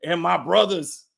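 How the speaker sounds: low, hammed-up tough talk; mock overacting. Mocking an actor's vow against his family, low and overdone. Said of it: "the overacting cannot be overstated".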